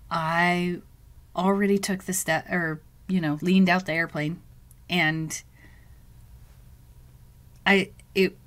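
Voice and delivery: halting, stumbling over words; stuttering. Real, not acted. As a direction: start and restart the sentence, stuck. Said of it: "I know I'm stuttering here".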